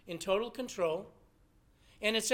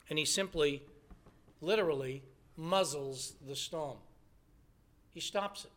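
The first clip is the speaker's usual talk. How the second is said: low, soft, with long pauses; hushed storytelling; 7 semitones lower, 6 dB quieter than usual. A narrator's reading. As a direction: drop right down for the calming of the storm. Dramatic calming of the storm.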